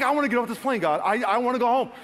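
high, loud complaint to God; retold worked-up plea to go home; whining protest.

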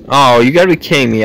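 fast, loud exasperated groan; frustrated outburst. Real, not acted. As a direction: blurt it out in disbelief. Fails jump, frustrated.

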